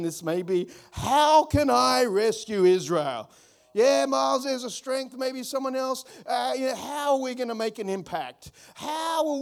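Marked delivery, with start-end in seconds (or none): 0.9-3.3 slow, doubting question; doubtful Gideon. Pretend. Gideon doubting God's call, slow doubtful question. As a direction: drag out the doubt slowly. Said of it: "here's Gideon".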